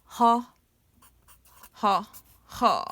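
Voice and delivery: spelling out the laugh, ho ho ho; syllable-by-syllable laugh. Shown as a demonstration. Teacher sounding out the laugh word, slow chuckle. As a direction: build the laugh sound piece by piece. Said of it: "That sounds is just laughing".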